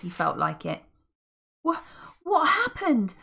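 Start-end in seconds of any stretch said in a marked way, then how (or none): 1.6-3.1 high dazed question; confused. Acted. Polly after landing in the well, dazed. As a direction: come to, bewildered. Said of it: "asked Polly in confusion".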